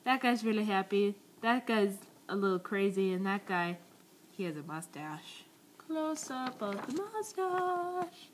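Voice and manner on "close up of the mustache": high, slow, dramatic announcer; milk the zoom like a trailer; slow hammed-up close-up call; mock dramatic close-up. Zooming in on drawn mustache.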